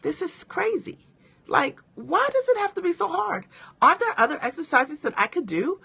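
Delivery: mock whine pitched high; exasperated inner complaint. Gym client grumbling to herself about hard push-ups, high exasperated whine. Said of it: "thinking to myself".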